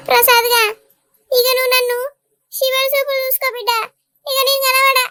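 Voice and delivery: mock tragic mother's lament; fake lament. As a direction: ham up the grief to guilt her son. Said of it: "ఏం acting".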